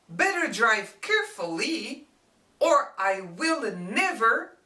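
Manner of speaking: mock-serious threat; stern warning. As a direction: warn them you won't ride along. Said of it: "And this is my warning".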